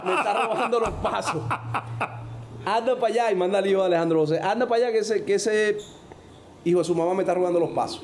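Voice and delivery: high, laughing amazed coach; laughing coach quote. Retold or imitated. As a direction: retell the coach's disbelief through laughter.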